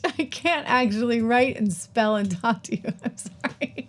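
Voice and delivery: a real laugh breaking through the words; laughing at herself. Real, not acted. Live host fumbles typing the link and laughs at herself.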